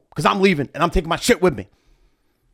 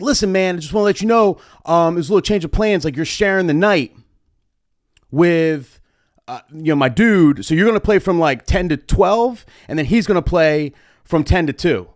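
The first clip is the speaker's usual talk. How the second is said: a breezy promoter voice, pitched up; imitating the promoter; 4 semitones higher than usual. Promoter telling the DJ about a change of plans, lightly voiced. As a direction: play the smooth promoter breaking the news.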